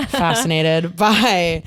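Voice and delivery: slow, careful Wisconsin "fascinated"; Wisconsin accent. Shown as a demonstration. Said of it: "my Wisconsin accent just came out".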